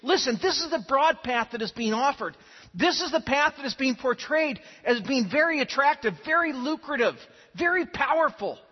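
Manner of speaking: Paul earnestly urging Timothy, emphatic appeal; urgent appeal. Acted. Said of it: "Paul is calling Timothy to look back".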